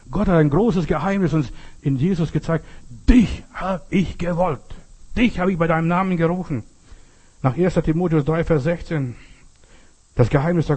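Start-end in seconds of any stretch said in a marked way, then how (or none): 3.1-6.6 Gottes Stimme. Acted.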